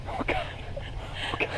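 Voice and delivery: high, squeaked terror; terrified squeak. Real, not acted. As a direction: squeak out the panic. Monkeys climbing on her.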